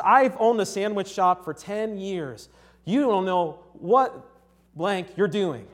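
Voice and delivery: mock-indignant, loud, drawn-out words; mildly hammed-up telling-off, slow and emphatic; imitating irate customer. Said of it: "he uses expletives out of nowhere".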